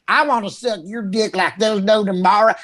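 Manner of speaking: lightly put-on Texas redneck; a touch of Texas redneck accent. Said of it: "the redneck Texas who are like".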